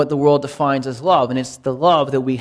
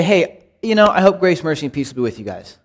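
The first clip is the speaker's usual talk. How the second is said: speculative, hesitant. Retold or imitated. Pastor mocking a hesitant blessing, casual and unsure. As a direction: hedge it like you're not sure. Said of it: "you can quit being speculative".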